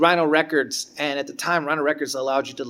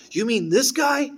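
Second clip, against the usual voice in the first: knowing teacher; 8 semitones higher, slower than usual. Retold or imitated. Teacher pulling out the CD.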